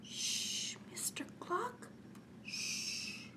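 soft unvoiced shushing; a boy hushing the chiming clock so Grandpop sleeps; hushing whisper. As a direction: hush the clock like a secret. Finger to lips, hushing clock.

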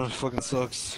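talking through hiccups; hiccuping between words. Real, not acted. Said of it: "I got the hiccups right now".

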